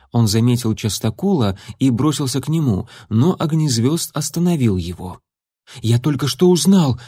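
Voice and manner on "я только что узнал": gasping, pushed-out words; panting after running; out of breath. Acted. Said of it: "задыхаясь, выдавил Бурый".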